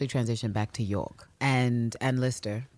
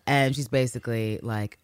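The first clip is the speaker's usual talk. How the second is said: ordinary talk, nothing marked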